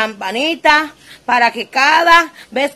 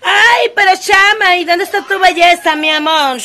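mildly mocking, sing-song hater voice; 4 semitones higher, 3 dB louder than usual. Vlogger mimicking the haters' comments, lightly mocking. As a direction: lightly imitate a catty critic. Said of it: "Los haters dirán".

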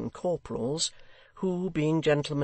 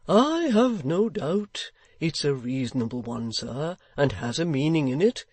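locksmith voice; 2 semitones higher, 4 dB louder than usual. Acted. Locksmith replies.

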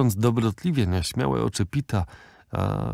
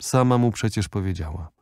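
usual speaking voice

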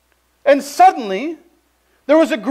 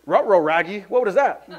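lightly put-on cartoon dog talk; mock alarm of a puzzled cartoon dog; 4 semitones lower than usual. Joking about being intrigued by something, in a cartoon dog voice.

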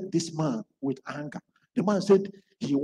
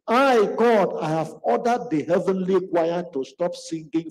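louder, commanding divine voice; forceful preaching as God; 4 dB louder than usual. Acted. Preacher voicing God rebuking the man loudly. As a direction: proclaim it like a judge from heaven.

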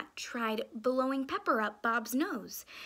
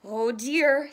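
worried; 10 dB louder than usual. Acted. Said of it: "said Mark".

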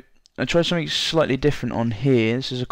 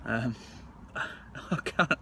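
numb lip; 5 dB quieter than usual. Real, not acted. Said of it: "I feel like I can't talk to you guys".

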